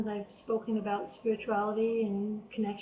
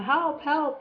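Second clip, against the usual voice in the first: mild mock yell of help, pitched up; retold scream for help; 5 semitones higher, 4 dB louder than usual. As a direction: call out help as if drowning, but held back. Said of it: "I screamed and screamed".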